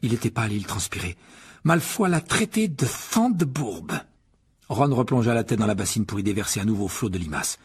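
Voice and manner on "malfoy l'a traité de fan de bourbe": put-on slow, high, croaky sick boy; hoarse. A narrator's reading. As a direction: labour through it hoarsely. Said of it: "d'une voix rauque". (voix rauque de malade)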